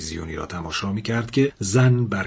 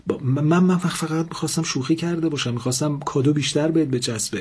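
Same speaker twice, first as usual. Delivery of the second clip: higher, stammering frightened excuses; terrified stammer, higher pitched; 5 semitones higher than usual. Acted. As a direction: stumble over the words in fear. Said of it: "مرد هراسان گفت".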